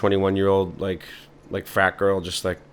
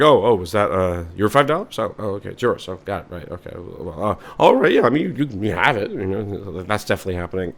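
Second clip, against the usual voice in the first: awkward, overly polite giving in; fake polite; 3 dB louder than usual. Stranger politely fighting over found five dollars. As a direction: pretend to yield while annoyed.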